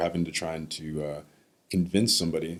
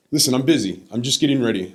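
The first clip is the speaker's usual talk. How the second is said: higher, louder imitation of dismissing someone; retold brush-off; 5 semitones higher, 6 dB louder than usual. Grandfather too busy for grandson's call, retold brush-off. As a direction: cut the caller off, imitating him.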